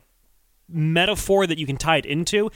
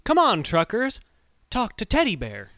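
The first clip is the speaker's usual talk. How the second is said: lightly imitated little boy on the radio; small voice; 4 semitones higher than usual. Host retelling the boy's CB call to truckers, lightly imitated small voice. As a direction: quote a child's small voice, only a hint of it. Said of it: "Small voice saying".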